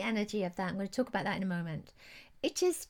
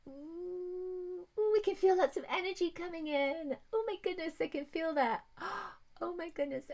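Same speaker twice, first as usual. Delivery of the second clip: awed excitement; 6 semitones higher than usual. Real, not acted. Card reveal, sensing energy.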